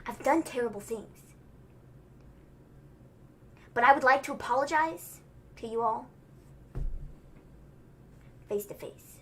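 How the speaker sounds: soft, low, badly faked Australian delivery with long pauses; Murphy. Podcaster imitating wrestler's apology to all, poor Australian accent, solemn. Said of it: "I can't do an Australian accent".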